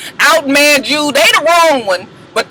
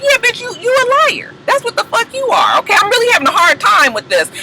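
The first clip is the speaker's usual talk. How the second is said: high, sassy imitation of a castmate; high mocking girl voice; mock cast member; 11 semitones higher, faster than usual. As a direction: pitch it way up and sass her. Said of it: "she was just like".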